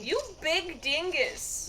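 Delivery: high, slow haughty dowager; grande dame. Pretend. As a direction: sniff it out like an old dowager. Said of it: "loving that dowager voice".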